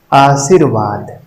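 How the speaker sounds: आशीर्वाद drawn out slowly; slow careful read. Shown as a demonstration. Teacher pointing out the vowel mark to students, slowly. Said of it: "मात्रा है इसका ध्यान देना".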